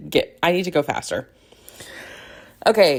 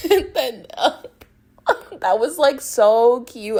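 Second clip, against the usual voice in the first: gushing; 7 semitones higher, 3 dB louder than usual. Real, not acted. Gushing over a cute scene.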